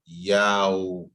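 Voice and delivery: Yow drawn out, gliding from a to w; demonstrated syllable. Shown as a demonstration. Teacher showing a student the sound, drawn-out Yow. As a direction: stretch Yow into a slow diphthong. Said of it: "It needs to be yow".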